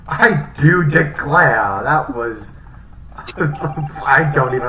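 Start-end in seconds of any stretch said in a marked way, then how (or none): 0.1-1.8 slow, loud Southern belle drawl; Southern accent. Acted. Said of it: "talk in country accents".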